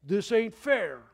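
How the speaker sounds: loud, high, hammed-up moaning about unfairness; whiny complaint. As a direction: whine it like a grumbler who feels cheated. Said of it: "Don't you say".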